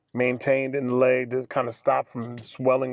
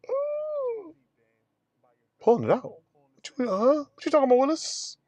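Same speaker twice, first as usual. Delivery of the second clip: alarmed disbelief; 12 semitones higher than usual. Retold or imitated. Reacting to catheter being pulled.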